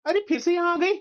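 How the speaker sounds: annoyed husband's complaint; exasperated. Acted. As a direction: nag impatiently at someone who came back. Husband annoyed that wife came back.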